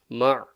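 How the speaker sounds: ma closed by a throaty ayn; sounded ayn. Shown as a demonstration. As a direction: end ma on ayn from the middle of the throat. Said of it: "So the ayn".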